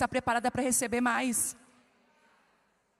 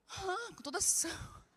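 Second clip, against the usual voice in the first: lazy husband voice; 6 semitones higher, 7 dB quieter, slower than usual. Retold or imitated. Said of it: "husband answering".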